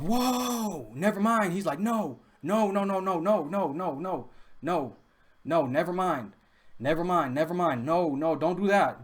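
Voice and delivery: high, drawn-out "whoa" easing into repeated backing-down; mock panicked yell. Man backing off from a charge, mock panicked pleading. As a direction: imitate someone backing off, high then gradually settling. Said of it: "He yelled".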